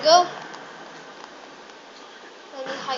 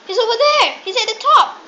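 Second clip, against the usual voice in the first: calling out; 6 semitones higher, 6 dB louder, faster than usual. Real, not acted. Calling out enemy position.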